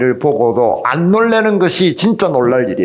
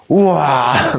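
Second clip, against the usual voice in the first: drawn-out wow, playfully put on; playful show of awe; mock amazement; much slower than usual. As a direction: act out being wowed by new things. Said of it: "놀래죠".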